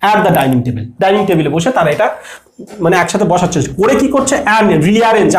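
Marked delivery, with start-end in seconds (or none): 0.1-0.8 slow and low, word by word; slow model sentence. Shown as a demonstration. A teacher reads the example slowly for the class. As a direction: read it out slowly for students. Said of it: "at বলবো".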